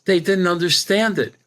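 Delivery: high-pitched imitation of an English accent. English psychic explains the group's reaction to the speaker, imitated English accent. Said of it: "with her English accent".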